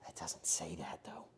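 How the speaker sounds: whispering. Real, not acted. Whispered aside.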